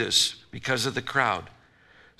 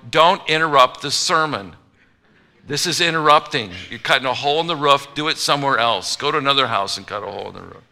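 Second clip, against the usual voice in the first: loud, fast, mock-indignant protest; hammed-up outrage at the hole in the roof; indignant objection; 4 dB louder, faster than usual. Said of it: "deep thinkers are going".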